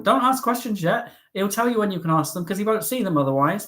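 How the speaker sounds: mock bossy northerner; thick northern accent. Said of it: "she speaks like that".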